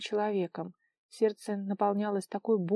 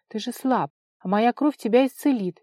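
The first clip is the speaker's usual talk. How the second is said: furious shout; 3 semitones higher, 7 dB louder than usual. A narrator's reading. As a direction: shout it out in rage, louder as it goes. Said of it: "яростно крикнула она".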